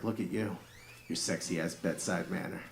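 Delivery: soft, low-key mock seductive murmur; dirty talk. Husband in bed flirting with his wife, mock dirty talk. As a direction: coo it softly, hamming up the seduction. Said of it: "I tried to dirty talk my wife".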